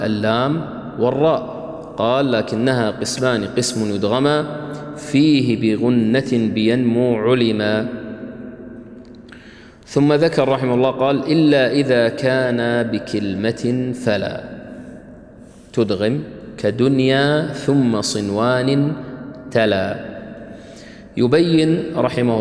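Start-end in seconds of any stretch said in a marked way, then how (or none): 2.3-7.9 slow, measured poem recitation; verse recitation. Acted. Teacher quoting the tajweed poem to students, measured recitation. 11.3-20.0 slow, drawn-out poem recitation; chant-like measured reading of a verse. Acted. Teacher quoting the next verse to students, slow recitation.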